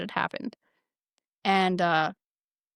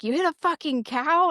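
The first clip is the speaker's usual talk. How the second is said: higher-pitched mock disbelief; imitated incredulous reaction; 8 semitones higher, 3 dB louder than usual. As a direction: act out a friend's astonished question. Retold friend's incredulous reaction.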